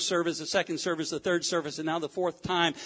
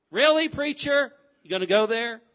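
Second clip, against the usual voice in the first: incredulous challenge; 4 semitones higher, 4 dB louder than usual. Acted. Voices a challenging listener.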